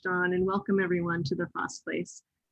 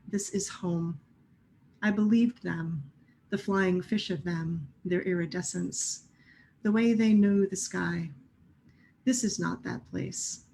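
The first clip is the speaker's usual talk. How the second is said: measured poem recital with pauses between lines; poetry reading. Acted. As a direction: read it as verse, phrase by phrase, each line set apart. Reads own poem aloud.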